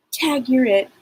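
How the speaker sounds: mischievous girl playing tag; playful little girl. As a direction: tease like a child at play. Playful child spirit.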